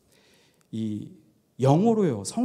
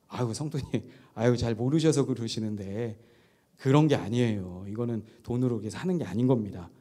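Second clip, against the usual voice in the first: softer, kindly explaining to a new believer; softly reassuring pastor, a touch lower; gentle pastoral answer; 6 semitones lower, 5 dB quieter than usual. Acted. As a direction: soothe the member, patient and mild. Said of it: "이렇게 잘 얘기하면 되잖아요".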